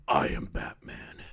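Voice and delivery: whispered Batman impression. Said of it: "the Batman villain voice".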